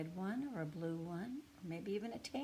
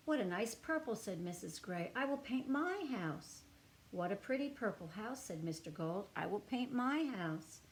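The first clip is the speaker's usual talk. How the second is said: gentle, expressive storybook reading; reading to children; 3 dB louder, slower than usual. A narrator's reading. Reading a picture book aloud to young children, storybook voice. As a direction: read it to little listeners with feeling.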